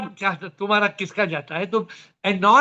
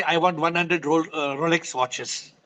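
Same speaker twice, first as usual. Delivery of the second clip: greedy wish; 3 semitones lower, 3 dB quieter, slower than usual. Retold or imitated. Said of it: "will not say".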